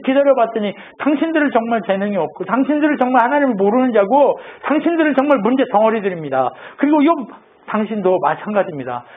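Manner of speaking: mildly heated scolding, building then dropping at the verdict; retold indignant rebuke. Young Elihu scolding Job and his friends, mock indignant. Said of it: "엘리후가 열받아가지고".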